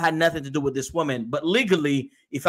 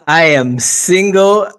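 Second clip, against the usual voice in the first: joking; 11 dB louder than usual. Pretend. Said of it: "No, I'm just kidding".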